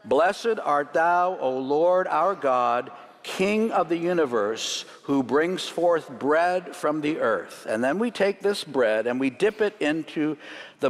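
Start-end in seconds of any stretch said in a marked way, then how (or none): 0.1-7.7 slow, solemn prayer read aloud; leading the room in a reverent blessing; spoken blessing. Shown as a demonstration. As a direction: lead the congregation in prayer, slowly. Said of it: "Together in English".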